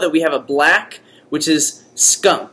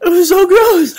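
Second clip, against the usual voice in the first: high laughing squeal; 12 semitones higher, 5 dB louder than usual. Real, not acted. Laughing at the puke.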